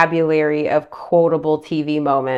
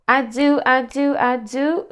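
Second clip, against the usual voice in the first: higher playful repeated "I do"; sing-song; 7 semitones higher, slower than usual. Real, not acted. Reassuring the viewer, sing-song higher. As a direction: bounce it up like a catchphrase.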